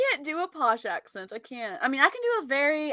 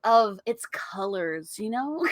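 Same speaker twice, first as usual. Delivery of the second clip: soft-spoken mock art connoisseur; art critic; 7 dB quieter than usual. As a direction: muse quietly and earnestly over a painting. Mock refined art critic act.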